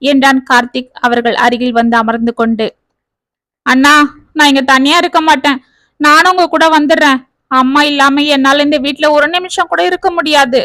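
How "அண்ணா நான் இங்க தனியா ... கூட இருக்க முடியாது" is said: wailing. Acted. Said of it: "என்று கதறினாள் கீதா".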